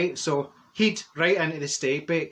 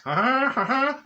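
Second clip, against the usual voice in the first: laughing; 8 semitones higher than usual. Real, not acted. Laughing at Fanny's look.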